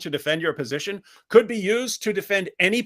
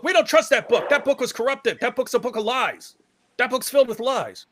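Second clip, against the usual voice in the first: mock quote; 6 semitones higher than usual. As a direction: parrot their claim mockingly. Mock quoting Muslim claim.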